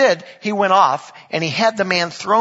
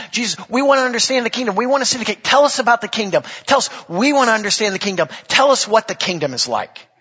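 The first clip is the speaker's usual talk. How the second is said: eager plea; 5 semitones higher, faster than usual. Acted. Voicing eager disciples pleading.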